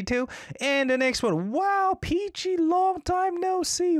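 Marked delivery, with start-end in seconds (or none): 1.5-4.0 high, slow, drawn-out delighted welcome; sing-song delighted hello; excited greeting. Real, not acted. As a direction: stretch it out, thrilled to see them. Excited welcome back to viewer.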